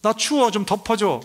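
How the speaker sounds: lightly voiced baby whining for mom; whiny baby voice. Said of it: "막 웁니다". (기저귀 갈아 달라고 엄마에게 살짝 칭얼대는 아기 흉내)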